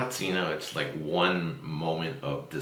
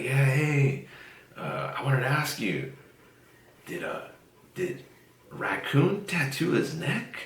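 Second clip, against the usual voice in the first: much higher, hesitant mock caller voice; imitating Van Dyke; 9 semitones higher, slower than usual. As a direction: pitch up high and hesitate like the caller. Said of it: "And he was like".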